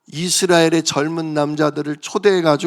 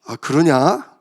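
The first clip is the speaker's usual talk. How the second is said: God mock-apologizing; 3 semitones lower than usual. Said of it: "하나님 그러시겠어요?".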